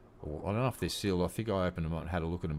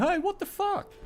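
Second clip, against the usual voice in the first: mock outrage; 4 dB louder than usual. Rest of world voiced, outraged.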